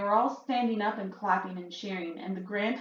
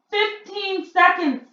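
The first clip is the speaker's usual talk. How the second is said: higher, slow, loud gloating call; crying out; 12 semitones higher, 8 dB louder, slower than usual. A narrator's reading. Grand High Witch counting down to the boy, slow gloating cry. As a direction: draw the seconds out, gloating. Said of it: "cried the Grand High Witch".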